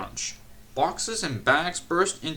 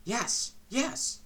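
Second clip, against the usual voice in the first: higher, eager yes; 10 semitones higher than usual. A narrator's reading. Passengers eagerly agree to keep secret, higher. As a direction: agree keenly.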